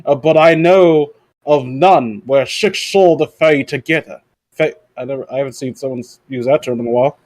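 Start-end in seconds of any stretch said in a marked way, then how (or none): 0.0-4.2 slow, drawn-out mock Bane read; slow put-on villain voice for a silly article; the speaker doing Bane. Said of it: "the speaker doing his Bane impression".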